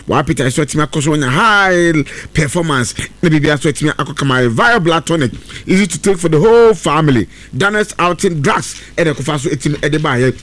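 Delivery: brisk, upbeat radio ad read. Acted. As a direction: sell the pepper and tonic to listeners. Reads a live ad.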